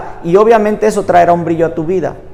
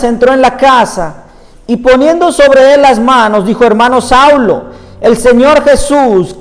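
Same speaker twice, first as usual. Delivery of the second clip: measured, emphatic Bible reading aloud; scripture reading; 2 semitones higher than usual. Acted. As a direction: read the passage out to a congregation, phrase by phrase. Reads Bible passage aloud.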